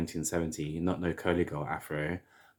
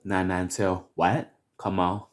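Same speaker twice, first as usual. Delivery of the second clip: catchphrase; 2 semitones higher, 5 dB louder than usual. Acted. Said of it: "my little catchphrases".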